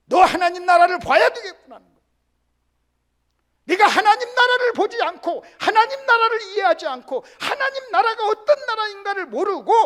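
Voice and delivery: full-voiced sermon climax; forceful preaching. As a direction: drive the point home to the whole congregation. Preacher builds to forceful declaration.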